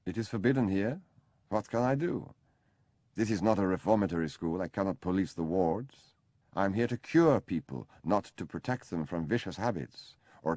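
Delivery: a fed-up foreign doctor scolding; exasperated doctor. Acted.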